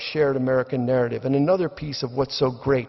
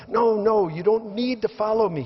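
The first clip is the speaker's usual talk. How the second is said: high, pleading no no; exasperated Brian; 8 semitones higher than usual. Retold or imitated. Brian pleads with the crowd, high exasperated. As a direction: wave them off, voice up high. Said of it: "he says".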